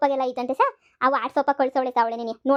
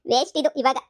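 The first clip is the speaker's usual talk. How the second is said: amused at her own successful trick; chuckling gloat; gleeful laughing; 3 semitones higher, 4 dB louder than usual. Acted. Gloating over her successful act.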